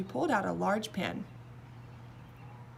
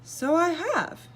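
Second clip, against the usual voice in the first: higher, louder giggle, a little slow; the king giggles at his own success; giggling; 9 semitones higher, 7 dB louder, slower than usual. A narrator's reading. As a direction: giggle in delight. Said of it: "he giggled".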